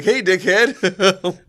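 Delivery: slow, high parrot voice with a laugh. Retold or imitated. Parrot insults sister-in-law again, slow high squawk with a laugh. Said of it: "the fucking bird's like".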